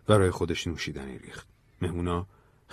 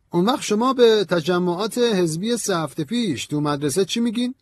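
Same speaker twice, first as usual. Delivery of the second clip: high, sharp accusation; heated, cutting question; 12 semitones higher, 5 dB louder than usual. A narrator's reading. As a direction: challenge him pointedly, pitch raised high. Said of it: "ویویر تند و تیز به مدیر گفت".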